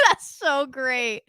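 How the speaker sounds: laughing. Real, not acted. Laughing after doing the face.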